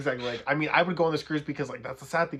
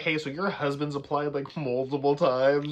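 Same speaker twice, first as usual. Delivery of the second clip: higher, louder mock recruiter; cruise staff voice; 3 semitones higher, 4 dB louder than usual. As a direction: coax like a salesman. Acting cruise staff asking.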